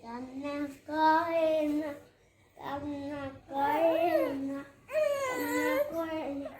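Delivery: slow, soft soothing croon. Real, not acted. Child soothing a crying baby.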